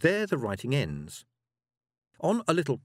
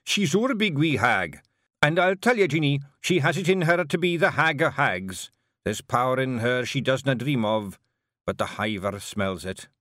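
louder, fervent Scots pride; earnest Scottish chief, building then dropping; Rob Anybody, proud Feegle; 3 dB louder than usual. Acted. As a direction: swell with pride for the hag. Rob praises the hag.

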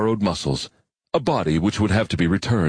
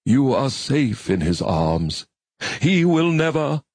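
faraway gentle voice; 7 semitones higher, slower than usual. A narrator's reading. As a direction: soothe like a distant priest. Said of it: "in a faraway, gentle voice".

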